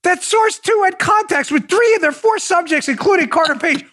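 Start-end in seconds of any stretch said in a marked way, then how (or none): none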